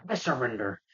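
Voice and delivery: understated feigned surrender; Green Goblin. Retold or imitated. Goblin answering the cops before punching them, mock-compliant.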